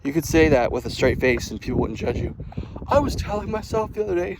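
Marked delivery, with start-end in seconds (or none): 2.9-4.4 a raised, slightly daffy line; sounding crazy. Shown as a demonstration. Vlogger demoing how self-talk sounds crazy, raised and daffy. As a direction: say it like you're a bit off. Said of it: "if you start like that, you will sound crazy".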